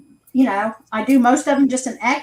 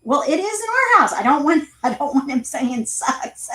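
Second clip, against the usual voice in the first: mock indignant; 4 semitones higher than usual. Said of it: "I go".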